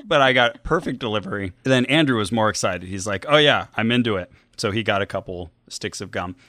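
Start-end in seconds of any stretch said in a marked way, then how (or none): 3.3-6.4 talking while chewing gum; words around a wad of gum. Real, not acted. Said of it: "Don't choke on that".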